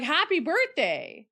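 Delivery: flatter redo of the waitress. Retold or imitated. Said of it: "She was like".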